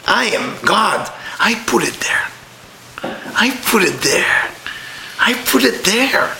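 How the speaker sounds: slow, hushed voice of God. Acted. Teacher voicing God, slow and hushed.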